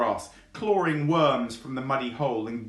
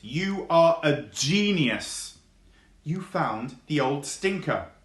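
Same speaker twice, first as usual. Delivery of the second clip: delighted praise; 4 semitones higher, 5 dB louder, slower than usual. Acted. Shelley praises dog joyfully.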